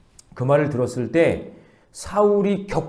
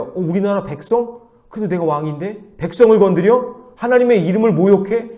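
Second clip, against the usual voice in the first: rising indignant questions, growing louder and higher; acted outrage; 5 semitones higher, 4 dB louder than usual. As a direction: build to affronted disbelief. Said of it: "여기에 대해서는 격분하는 거죠". (점점 격분하며 따져 묻듯이)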